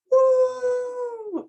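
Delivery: high, loud thrilled woo; excited whoop. Retold or imitated. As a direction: cheer like you're about to ride again. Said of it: "she goes".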